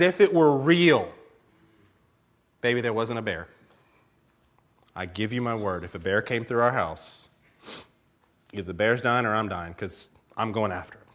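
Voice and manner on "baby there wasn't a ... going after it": low, soft earnest promise; understated mock-solemn reassurance; reassuring husband. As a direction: vow it quietly to your wife. Husband earnestly reassuring wife, retold.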